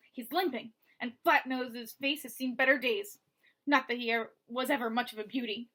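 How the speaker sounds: lightly voiced rasping thug; rasping villain. Basta taunting Mo through the wall, light rasping menace. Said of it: "the rasping voice".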